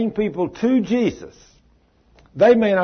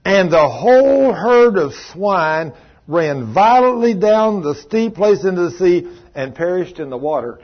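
preached scripture reading; 3 dB louder than usual. Acted. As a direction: read the verse like a fiery preacher.

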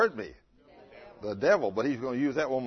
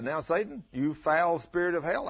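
commanding the devil; 5 semitones higher than usual. Retold or imitated. Preacher rebuking the devil.

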